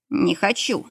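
mumbling through shut lips; talking with mouth closed. Acted. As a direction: speak with lips pressed together. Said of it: "промычал Андрей".

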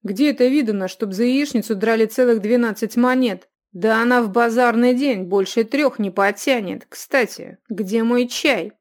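loud indignant protest. A narrator's reading. Youth protesting the bill to the innkeeper. Youth argues about price.

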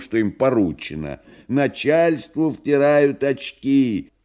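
high bleating goat voice; satyr. Acted. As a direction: sing it out like a goat. Koroviev keeps his goat voice.

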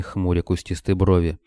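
plain reading voice

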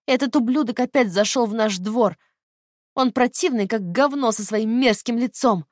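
put-on high, loud spiteful girl; loud childish disgust; changed teen voice. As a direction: sneer it like a vicious twelve-year-old. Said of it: "опять изменившимся голосом говорила Лина".

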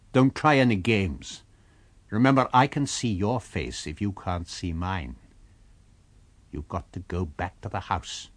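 steady, commanding warning; firm. Acted. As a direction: lay down the terms calmly but hard. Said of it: "and then firmly".

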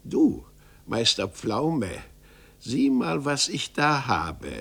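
a lightly voiced little hunchback, sly and amused; little old man chuckling strangely; odd little man. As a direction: tease him with a wink in the voice. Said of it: "lachte das Männchen gar wunderlich".

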